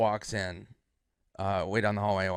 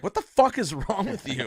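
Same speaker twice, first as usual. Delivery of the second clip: high, loud, exasperated scolding; Sandler; 10 semitones higher, 5 dB louder than usual. Retold or imitated. Star scolding friend over bad joke, mock-angry rebuke. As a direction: imitate an appalled telling-off.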